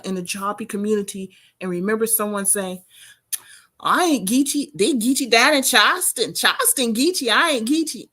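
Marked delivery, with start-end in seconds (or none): 3.8-8.1 lively, higher-pitched imitation of a country Geechee speaker; imitated Geechee accent. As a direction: lightly mimic a Charleston Geechee accent. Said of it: "and you sound like Charleston".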